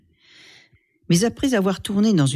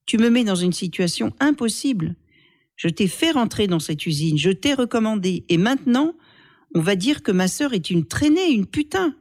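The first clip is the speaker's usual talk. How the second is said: reproche qui monte jusqu'à un cri aigu sur « putain »; frère outré; 5 semitones higher than usual. Acted. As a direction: monte en colère jusqu'au bout. Faisal reproche la honte. (frère outré reprochant la honte familiale, de plus en plus aigu)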